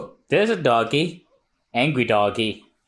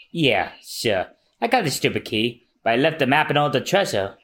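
grudging reply. Acted. Navigator answers unimpressed, downcast.

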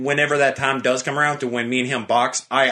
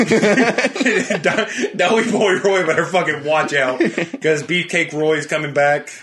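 gym bro; 4 semitones higher, slower than usual. Acted. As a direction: hype yourself up like a bodybuilder. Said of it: "talking like a bodybuilder".

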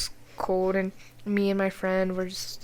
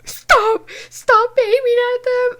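high, loud alarmed shout; yelling at classmates playing with guns; yelling stop; 13 semitones higher, 9 dB louder, slower than usual. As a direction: stop them before someone gets hurt. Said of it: "and I was like".

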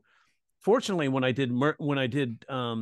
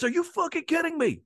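imitating a scolding; 10 semitones higher than usual. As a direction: scold him like the agent did, hammed up. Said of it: "he scolded me".

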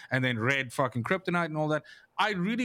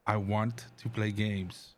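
mock eager; 7 semitones lower, 4 dB quieter than usual. Mock eager, quieter and slow.

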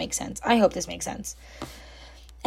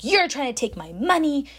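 higher-pitched mock indignation; mildly hammed-up angry complaint; mad customer; 5 semitones higher than usual. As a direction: imitate an accusing, put-out customer. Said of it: "he's getting mad at me".

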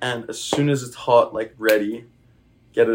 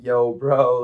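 put-on laid-back California surfer dude accent; a zesty California bro inviting a friend surfing; Californian surfer accent; slower than usual. Asked for a California guy, he does a California surfer accent. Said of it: "zesty, like, Californian guy".

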